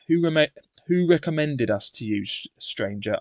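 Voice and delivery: "stranger" set apart at the end, lightly pointed; mild emphasis on the final "stranger"; stress on stranger. A narrator's reading. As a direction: hold off, then point the word "stranger". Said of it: "emphasizing the last word".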